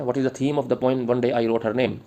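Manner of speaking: slow, measured dictation pace, each word spaced; slow dictation to the class. Acted. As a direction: read it out slowly so students can write. Dictating question.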